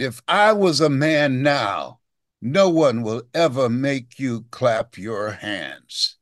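put-on slow, deliberate child's promise; slow right down and land the promise; slow vow. Boy's final vow, slowed.

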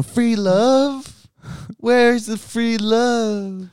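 high, slow yelled call; high yelling. Retold or imitated. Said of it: "keep yelling".

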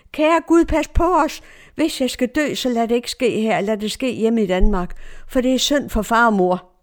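a hurried, mildly pleading appeal to God; retold cried prayer. Frightened woman begs God for protection, retold cried prayer. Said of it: "jeg råbte".

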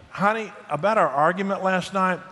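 a hint of a grateful wife, tongue in cheek; mock wife voice. Husband mimics a wife thanking him for yelling, mock sincere. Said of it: "said no wife ever".

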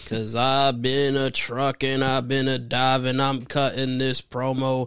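slow, drawn-out hype promo voice; wrestling promo. Acted. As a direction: cut it like a pro wrestler hyping the crowd. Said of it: "A wrestling promo".

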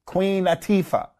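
Atifa stressed on the middle, as "a-TEE-fa"; anglicized pronunciation. Shown as a demonstration. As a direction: joke with an Americanized Atifa, long "ee". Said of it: "we anglicize them".

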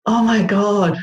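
a burst of amused surprise; surprised exclamation. Real, not acted. Guest recalling the spider visitor, exclaiming in surprise. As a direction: caught off guard, exclaim it. Reacting to spider story request.

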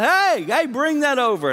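high, loud call across the room. Retold or imitated. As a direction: hail the lucky one out of the line. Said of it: "gets called out".

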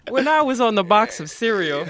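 high, bright Saturday morning cartoon voice; lightly voiced kids' cartoon mascot. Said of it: "that Saturday morning cartoon voice".

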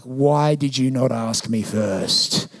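slow, exasperated mock complaint; husband protesting to his wife about surprise lunch guests; indignant retort. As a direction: drag it out like a put-upon husband.

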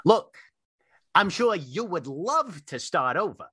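lightly voiced old tree scolding an intruder; grave ancient myth telling. Tree lectures the player.

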